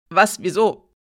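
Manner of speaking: loud, shocked question; startled protest. A narrator's reading. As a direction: burst out in disbelief.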